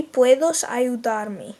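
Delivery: very slow, careful Spanish. Shown as a demonstration. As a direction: model it slowly. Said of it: "if we took out the please".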